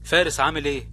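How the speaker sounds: hushed, soft friend's voice; hushed suspense. Acted. Friend's phone reply quoted. (صوت خافت مشوّق)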